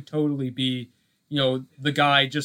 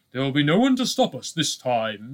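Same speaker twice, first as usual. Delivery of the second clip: Vader quote. Retold or imitated. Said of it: "Darth Vader says".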